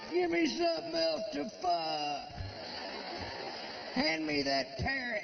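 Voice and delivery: very high, strained frantic voice; frantic squeal. Acted. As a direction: squeal it out like a man gone wild. Desperate horny frenzy.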